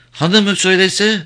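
put-on high, slow child's voice; high-pitched little girl, drawn out; little girl asking. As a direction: ask slowly as a small child. Child asks further question.

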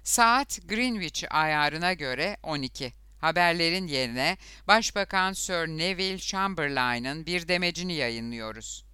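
a hint of a BBC announcer; old radio announcer. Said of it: "spiker gibi konuşmaya başladı".

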